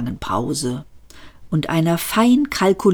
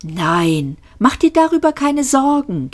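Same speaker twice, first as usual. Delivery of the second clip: trilling on; 9 semitones higher than usual. A narrator's reading. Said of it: "ging das Geträllere weiter".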